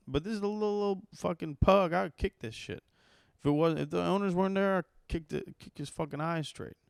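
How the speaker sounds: fuming about the little pug; worked up. Real, not acted. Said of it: "I'm getting all worked up".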